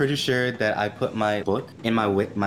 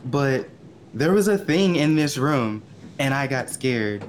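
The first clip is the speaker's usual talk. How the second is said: mildly louder deaf voice; 3 semitones higher than usual. Retold or imitated. Deafened Zira explaining to Kothak, mildly louder. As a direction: talk over the ringing in your ears, cracking up at the end. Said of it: "so I am probably louder".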